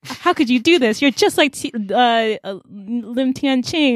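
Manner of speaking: high-pitched acted reproach; indignant accusation. Leland confronting her lover over cheating, acted indignant accusation. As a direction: accuse him, mildly hammed-up.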